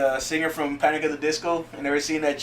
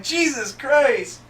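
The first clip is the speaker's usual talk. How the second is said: slow exasperated sigh; 9 semitones higher, much slower than usual. Retold or imitated. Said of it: "They're like".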